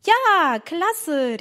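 little sister cheering at the plan; excited shout. Acted. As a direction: burst out with glee. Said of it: "rief Emma".

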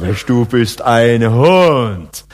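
slow, drawn-out "Mensch, du bist ein Hund" full of respect; admiring. Shown as a demonstration. Preacher shows the admiring meaning of Hund, slow and impressed. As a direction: say it like the highest praise, slowly. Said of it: "das ist höchste Anerkennung".

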